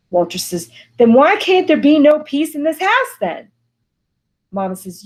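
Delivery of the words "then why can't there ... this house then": raised, higher, louder comeback; heated retort. Acted. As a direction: throw it back at her. Walter argues back with mother.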